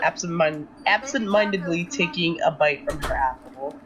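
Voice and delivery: calm, even narrator voice; story narration. A narrator's reading. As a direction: narrate the scene steadily. Narrates Rue's actions.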